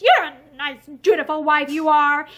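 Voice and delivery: put-on thick, slurred drunken speech. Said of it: "he said thickly".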